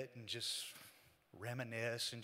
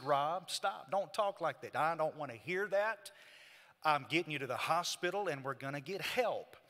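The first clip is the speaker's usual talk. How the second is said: raised, insistent protest; firm rebuke; 3 semitones higher, 3 dB louder than usual. Retold or imitated. Man stops his despairing brother on the hospital drive, firm rebuke. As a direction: cut off the defeatist talk.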